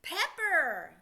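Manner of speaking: quick, loud, joined-up Pepper. Shown as a demonstration. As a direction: blend the parts fast into one word. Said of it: "Put it together faster".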